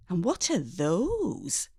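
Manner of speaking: slow, soft sniffy question; a hint of a disdainful mother; disapproving mum. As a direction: look down on the new glasses.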